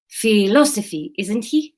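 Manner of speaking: slow, lightly acted Spanish accent; Spanish-accented student asking casually. Student asks about a colleague, Spanish accent. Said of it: "Let's do Spanish".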